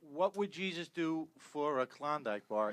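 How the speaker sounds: slow, deliberate ad line; commercial slogan. Retold or imitated. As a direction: deliver it as a drawn-out commercial tagline. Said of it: "I was filming a commercial".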